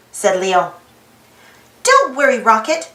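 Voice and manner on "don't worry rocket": confident. Acted. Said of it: "Annie said confidently".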